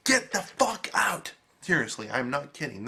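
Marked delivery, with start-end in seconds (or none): 0.1-1.3 high, slow mock shout; imitated yell. Angry viewer yelling at the screen, higher mock yell. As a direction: bark it at the TV like you're back there. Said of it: "I was literally yelling at the screen".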